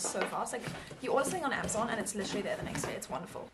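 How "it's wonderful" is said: whispered. Real, not acted. Sarcastic hushed aside.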